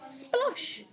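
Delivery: high, hushed splosh; small high splash sound; splash noise. A narrator's reading. Narrator sounds the slip into the moat, high splosh.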